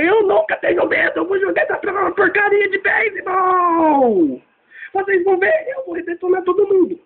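hammed-up indignant bluster; defiant high shout. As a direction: Knuckles insisting he's never afraid. Knuckles boasts he isn't scared.

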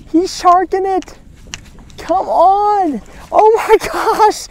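high, loud, stretched squeal; real thrilled shriek; frantic excitement. Real, not acted. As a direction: squeal as the fish chases. Fish chasing lure to boat.

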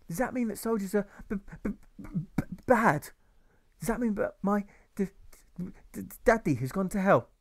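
high child voice, stuttering on bad and daddy; an anxious boy desperate for an answer; nervous boy. Boy anxiously asking his teacher about his father, stammering.

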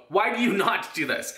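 usual speaking voice

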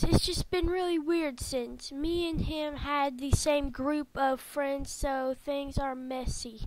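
lightly voiced downhearted friend; a touch of hurt, trailing softly at the end; mildly sad game friend. Friend confiding after a breakup, mildly downcast.

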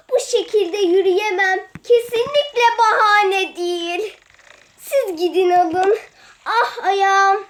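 hammed-up pained cries, a laugh slipping through; faked injury. To her sisters, faking a hurt foot, mock pained. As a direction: overplay a twisted ankle to dodge the trip. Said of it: "bu numaraları yemiyoruz maalesef".

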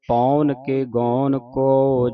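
ਪੌਣ and ਗੌਣ with an open au vowel; kanaura vowel. Shown as a demonstration. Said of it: "ਕਨੌੜੇ ਦੇ ਨਾਲ ਉਚਾਰਨ ਕਰਨਾ ਹੈ".

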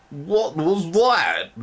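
high, slow monstrous shriek; very high drawn-out creature shriek; shrieking gross mother. Acted. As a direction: shriek it like a startled giant matron. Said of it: "the gross mother shrieked".

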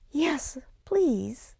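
high breathless little whisper; timid whisper. Acted. Little boy timidly accepting the troll's help, whispered. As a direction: whisper it shyly.

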